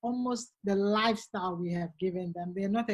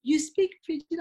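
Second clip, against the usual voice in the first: shocked viewers; 6 semitones higher, 4 dB louder than usual. Retold or imitated. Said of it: "really shocked watching it".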